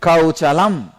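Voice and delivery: KAUCHALAM with a hard "ch" in the middle; Keralan pronunciation. Retold or imitated. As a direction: say "Kauchalam" with "ch", not "sh". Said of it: "so the pronunciation he made".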